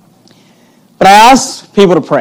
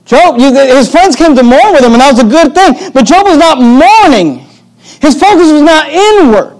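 raised, high-pitched preaching voice; impassioned preaching; 8 semitones higher, 3 dB louder than usual. Real, not acted. Pastor insisting Job's focus was not inward, impassioned preaching. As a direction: drive the contrast home from the pulpit.

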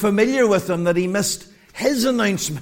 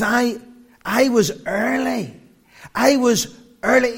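indignant; 4 semitones higher than usual. Retold or imitated. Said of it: "He was furious".

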